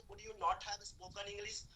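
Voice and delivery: very slow English model sentence; slow dictation. Shown as a demonstration. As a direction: stretch each word for the learners. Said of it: "ऐसे कई सारे sentence आप बोलते हो बेटा". (बहुत धीरे-धीरे वाक्य बोलना)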